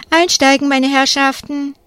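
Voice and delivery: lauter, höherer Ausruf; rufend. A narrator's reading. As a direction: ruf es über den Schulhof. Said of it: "Der Busfahrer steigt aus und ruft". (Busfahrer ruft die Kinder laut zum Einsteigen)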